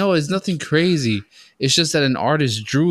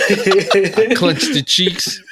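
slow comic emphasis; 5 semitones higher, 3 dB louder, much slower than usual. Retold or imitated.

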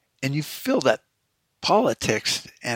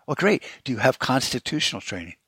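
sarcastic. Retold or imitated. Sarcastic retort to sheriff.

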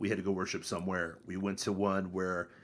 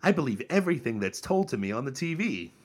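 mock gullible enthusiasm; 4 semitones higher, 3 dB louder than usual. Meme character turns gullible.

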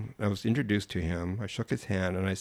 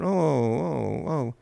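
Italian woman voice; 6 semitones higher, much slower than usual. Retold or imitated. Quoting Italian woman's reaction.

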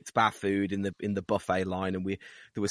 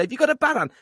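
teasing saying; 13 semitones higher, 3 dB louder, faster than usual. Retold or imitated. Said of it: "you'd say".

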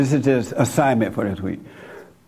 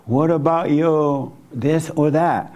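devil's voice; 3 semitones higher than usual. Retold or imitated. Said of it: "That's the devil talking to you".

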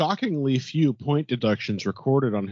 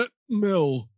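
high, slow mock Yorkshire old man; hammed-up Yorkshire accent, pitched way up; 7 semitones higher than usual. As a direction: drag it out as an elderly Yorkshire character. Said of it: "is the old man from Yorkshire".

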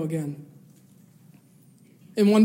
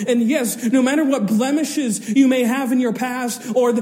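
higher, insistent preacher's appeal; fervent preaching; 4 semitones higher, 4 dB louder than usual. Acted. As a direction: plead with the congregation. Altar call preaching.

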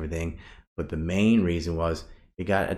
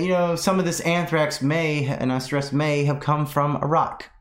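higher-pitched mock politician's statement; John McCain; 9 semitones higher than usual. Retelling a senator's talk-show claim, mock politician voice. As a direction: quote the senator, pressing on "may" each time. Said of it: "and then he said".

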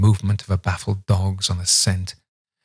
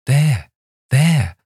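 triumphant; 6 semitones higher, 5 dB louder than usual. A narrator's reading. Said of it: "I said to Miles".

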